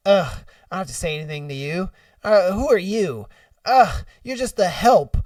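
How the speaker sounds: imitating a haughty passenger; mock disdain. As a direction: scoff as if talking down to staff. Mocking the entitled passenger.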